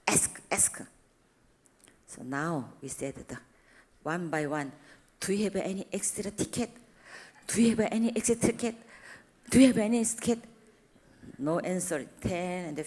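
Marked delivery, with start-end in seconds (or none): 0.1-0.8 whispered urging. Retold or imitated. 5.2-10.4 calling out. Retold or imitated. Calling out for tickets.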